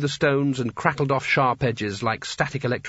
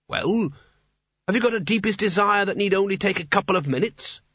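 talking hat; 7 semitones higher than usual. A narrator's reading. Hat speaks.

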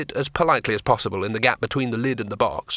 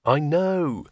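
miserable; 5 semitones higher than usual. Acted. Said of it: "said Rincewind miserably".

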